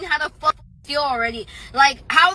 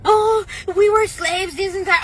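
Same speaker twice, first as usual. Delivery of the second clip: mocking voice; 5 semitones higher than usual. Mocking people who cite slavery.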